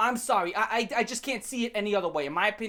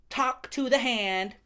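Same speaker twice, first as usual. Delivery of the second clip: sassy mock voice; slower than usual. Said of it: "silent treatment".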